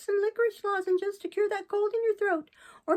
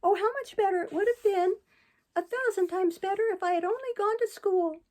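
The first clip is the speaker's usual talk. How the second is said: high, louder despairing puppet lament; crying bitterly; 11 semitones higher, 4 dB louder than usual. A narrator's reading. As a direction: plead with the fallen friend, near tears. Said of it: "Crying bitterly in his despair".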